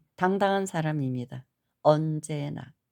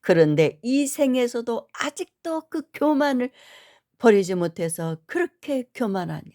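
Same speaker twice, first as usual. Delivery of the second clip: retold scolding; 5 semitones higher than usual. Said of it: "그러면서 막 야단을 치시는".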